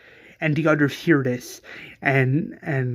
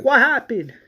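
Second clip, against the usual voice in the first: higher and louder, alarmed; alarmed shout; 9 semitones higher, 6 dB louder than usual. Acted. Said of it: "he's like".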